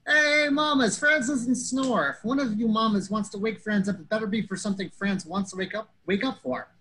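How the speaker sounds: high, loud indignant retort, easing slightly; hammed-up woken sleeper talking back; Franz. Franz answering everyone who shouted, imitated indignant bellow.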